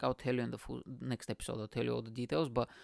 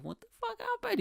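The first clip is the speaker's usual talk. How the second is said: tag only. Retold or imitated. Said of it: "so nervous".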